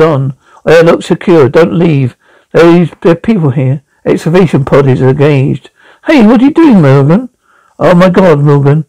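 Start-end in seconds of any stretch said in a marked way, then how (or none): 6.1-7.3 alarmed cry. Acted. Pod leaves without them.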